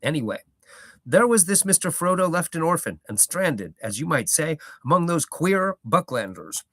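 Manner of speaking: old hobbit gardener, lightly voiced, proud; a touch of a rustic old gardener holding forth; Gaffer's voice.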